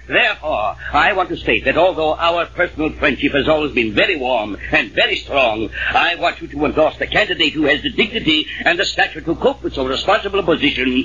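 pompous formal address; dignified. Acted. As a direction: put on serious dignity to win his endorsement. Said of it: "now, serious and dignified".

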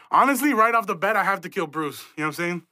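excited. Real, not acted. Excited rant about killing Bruce.

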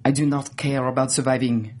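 understated serious French character; serious French accent. Retold or imitated. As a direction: imitate her gravely in a French accent. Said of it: "she gets real serious".

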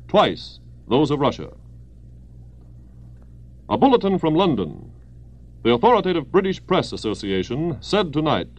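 brisk wartime radio bulletin; old newsreel. Acted. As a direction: read it like a 1940s news announcer.

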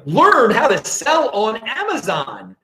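lightly put-on Australian accent. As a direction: imitate an Australian advert, drawing it out. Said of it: "it's with Australian accents".

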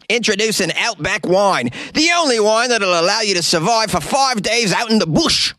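high, bright-sold mock commercial voice; mock infomercial announcer pitching wine; spoof ad announcer. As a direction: sell the wine like a cheesy TV ad.

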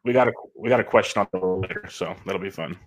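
choppy connection audio; glitchy call dropping out; breaking up. Real, not acted. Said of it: "you're breaking up a little bit on my end".

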